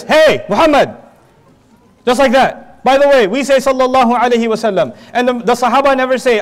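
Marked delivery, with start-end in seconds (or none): 0.0-1.0 a blunt, disrespectful "Hey Muhammad."; rude, casual call. Shown as a demonstration. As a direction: hail the Prophet bluntly, like a buddy. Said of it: "It literally sounds like this".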